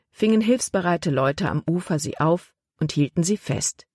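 ordinary delivery

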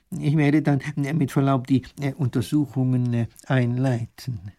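mildly voiced halting scholar; tentative, deferential, dragging to the end; hesitant professor. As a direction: excuse yourself with many fillers.

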